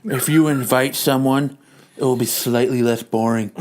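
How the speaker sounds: a weary wife handling everything. Acted. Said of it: "wife voice continues".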